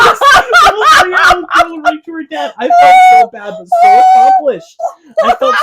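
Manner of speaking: high, loud laughing words; laughing hard. Real, not acted. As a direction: laugh through the telling.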